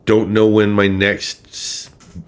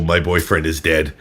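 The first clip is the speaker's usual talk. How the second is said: casual. Retold or imitated. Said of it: "with a casual".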